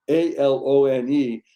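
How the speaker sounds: A L O N E spelled out slowly, letter by letter. Shown as a demonstration. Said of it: "that word".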